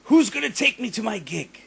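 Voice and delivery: high, whiny mock of the demanding singer; whiny bitching. Mocking the singer nagging the band for a ride, high whine. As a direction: nag everyone in a high put-on whine. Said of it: "just bitching at everybody".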